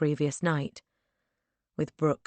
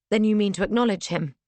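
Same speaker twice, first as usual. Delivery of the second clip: alarmed; 5 semitones higher, 6 dB louder, faster than usual. Acted. Fearful question.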